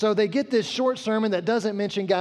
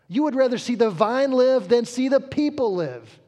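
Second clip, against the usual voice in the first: God's firm rebuke; 4 semitones higher, 4 dB louder than usual. Acted. God rebuking Jonah.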